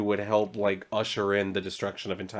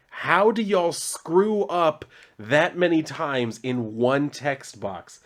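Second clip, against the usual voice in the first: exasperated; 3 semitones higher, slower than usual. Real, not acted. Exasperated at the misprints.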